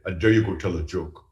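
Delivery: put-on a rough try at a German accent; attempted German accent. Exchange student daring his friend in a movie theater, attempted German accent. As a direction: imitate a German exchange student, accent only lightly done. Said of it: "the best German accent I got".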